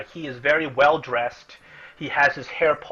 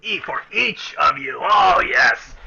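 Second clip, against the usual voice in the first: loud, higher, cheerful dwarf; hearty dwarf shout; 4 semitones higher, 5 dB louder, slower than usual. Acted. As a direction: bellow the agreement. Dwarf agrees loudly to the party.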